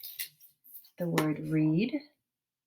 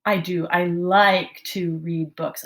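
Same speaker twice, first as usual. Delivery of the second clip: thinking aloud to the class; 6 dB louder, slower than usual. Shown as a demonstration. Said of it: "I am going to say".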